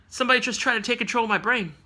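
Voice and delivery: quick, offhand, as if it happens every Tuesday; nonchalant. Retold or imitated. Professor X telling the X-Men about the attack, nonchalant. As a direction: toss it off casually and fast. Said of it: "All nonchalant like that".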